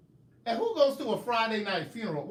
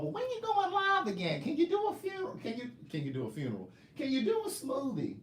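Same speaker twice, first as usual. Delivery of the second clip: very high squeaky nagging voice; mocking viewers' voices; 7 semitones higher than usual. Mocking fans who pester her, squeaky high nagging. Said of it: "this is how y'all talk".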